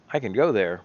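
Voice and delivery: put-on a light Hispanic accent on a casual line; Spanish accent. Gamer idly showing a map, in a light Spanish accent. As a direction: slip into a mild Spanish accent for a moment. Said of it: "I said that with a Spanish, a Hispanic accent".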